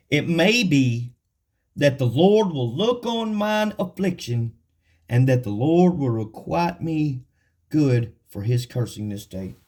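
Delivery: slow, drawn-out reading of the verse; solemn scripture reading. Acted. Preacher reading David's plea to the congregation, slow and solemn. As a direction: let each line of scripture land slowly.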